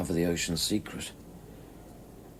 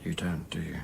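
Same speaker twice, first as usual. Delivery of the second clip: whisper; 5 dB quieter than usual. Acted. Quiet challenge.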